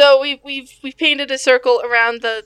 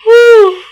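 heavy sigh; 9 semitones higher, 11 dB louder than usual. Acted. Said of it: "Aquawaddle sighs heavily".

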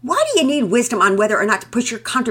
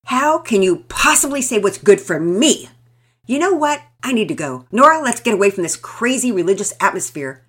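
loud, furious outburst, higher; 6 semitones higher, 11 dB louder than usual. A narrator's reading. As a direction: storm off yelling. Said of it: "loaded for bear".

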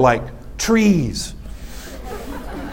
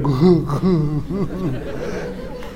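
put-on kid's whimpering, trailing away; mock whimper; 3 semitones lower, 7 dB quieter than usual. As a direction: imitate a scolded kid whimpering. Kid's reaction to being yelled at.

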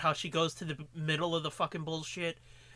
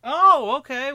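loud harsh voice; 7 semitones higher, 14 dB louder, slower than usual. Acted. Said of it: "then stop yelling at me".

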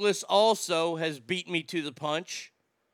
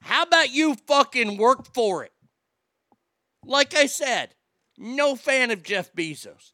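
shrill anger; 4 semitones higher, 5 dB louder than usual. Real, not acted. Ranting at Prince William.

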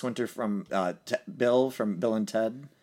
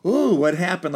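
feigned innocence; 6 semitones higher, 7 dB louder than usual. Retold or imitated. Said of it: "comes back to be like".

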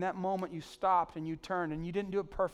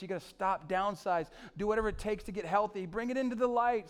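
building to a loud, higher urgent plea; 4 semitones higher, 4 dB louder than usual. Acted. Pastor voicing a friend's warning, rising urgency. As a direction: press the warning harder each line.

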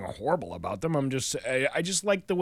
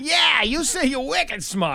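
high, drawn-out New England caricature; mock New England accent; 10 semitones higher, 3 dB louder, slower than usual. Co-host echoes the husband, slow high mock New England accent.

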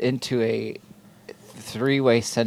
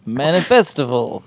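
light alien puppet voice, slightly raised; Alf voice; 2 semitones higher than usual. Shown as a demonstration. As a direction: say Manifestival like Alf. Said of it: "Now say it in the Alf voice".

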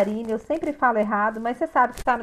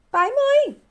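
much higher, punchy answer; emphatic answer; 14 semitones higher, 4 dB louder, slower than usual. Acted. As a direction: land the obvious answer hard. Answers her own rhetorical question. (resposta enfática, bem mais aguda)

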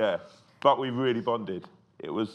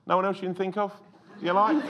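mock jealous; 11 semitones higher than usual. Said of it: "I went".

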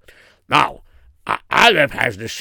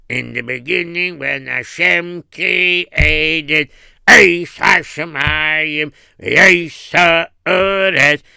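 slow, louder cheder singsong; Rebbe teaching Chumash; 3 semitones higher, 4 dB louder, much slower than usual. Retold or imitated. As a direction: drill the verse slowly for the pupil.

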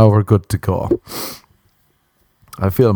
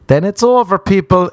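emphatic declaration; 10 semitones higher than usual. Real, not acted. Declaring friendship over on Instagram.

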